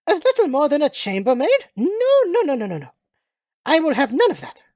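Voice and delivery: lightly voiced indignant British lady; haughty British lady. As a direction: play a put-out, imperious English lady.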